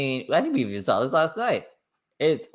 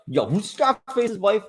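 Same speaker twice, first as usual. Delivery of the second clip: mock sassy; 9 semitones higher than usual. Louder, higher mock take.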